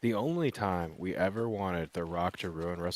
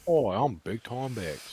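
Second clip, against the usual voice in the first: Big Time Bex voice; 3 semitones higher, slower than usual. Retold or imitated. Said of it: "she's like".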